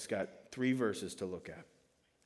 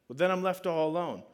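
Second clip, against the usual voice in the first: higher, louder mock-worried plea; retold childish fretting, pitched up; imitated worried child; 6 semitones higher, 5 dB louder than usual. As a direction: play at being an anxious kid. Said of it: "he'd have this kinda worry".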